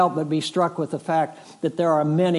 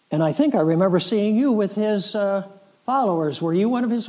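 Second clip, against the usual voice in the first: higher-pitched, probing retold question; accuser's questioning; 5 semitones higher, faster than usual. Another bystander questions Peter about Jesus, probing. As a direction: lightly voice a bystander who thinks they know him.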